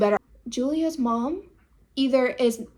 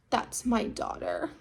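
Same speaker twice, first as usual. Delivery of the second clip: flat correction; 2 semitones lower, 9 dB quieter, slower than usual. Retold or imitated. Mom corrects the rude neighbor.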